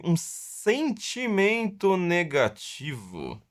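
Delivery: drawn-out, dramatic interviewer delivery; lightly imitated TV interviewer, stretching each word; Marília Gabriela. Mocking a journalist's claim that criticism is crime, theatrical drawl. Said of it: "a Marília Gabriela agora falando".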